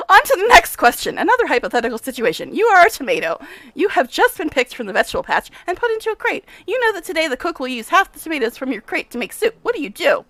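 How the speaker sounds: lightly played brisk, self-important scientist; a touch of the mad professor, pleased; eccentric scientist. Nenio quizzing.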